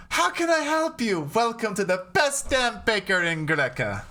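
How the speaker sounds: high-pitched sultry shopkeeper; a lighter touch of the sultry baker; femme fatale. Acted. GM voices the baker again.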